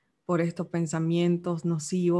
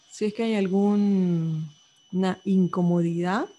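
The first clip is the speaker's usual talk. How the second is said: measured guiding voice with long pauses; unhurried meditation instructions, phrase by phrase; guided meditation. Acted. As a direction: guide the listener gently through a body scan. Leads a body-scan meditation.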